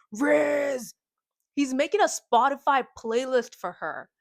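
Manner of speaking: excited rant. Retold or imitated. Excited notes read to friend.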